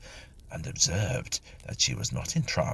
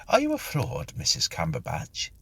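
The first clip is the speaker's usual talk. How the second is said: shocked accusation. Acted. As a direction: accuse her in disbelief. Ghost accuses medium.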